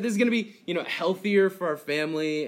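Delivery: high and loud, hammed-up mom laying down the law; mom's firm announcement. Mom telling her son in the car, mock stern and loud. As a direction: play the mom announcing the new rules. Mom voiced in retold story.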